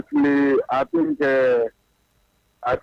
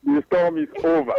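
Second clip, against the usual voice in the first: higher, triumphant restating; gloating repeat; 5 semitones higher than usual. Real, not acted. Liverpool fan answers host, gloating and triumphant. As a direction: savour the win, rub it in a little. Repeats after asked if happy.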